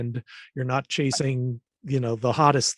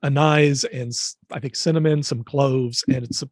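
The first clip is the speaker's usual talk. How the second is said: hoarse, gravelly throat; rough voice like gargling gravel. Real, not acted. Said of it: "It sounds like I'm gargling gravel at the moment".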